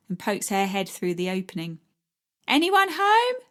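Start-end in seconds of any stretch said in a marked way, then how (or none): 2.5-3.4 put-on high cheery girl voice calling in; high playful greeting. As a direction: call a bright morning through the door. Florrie calls through door.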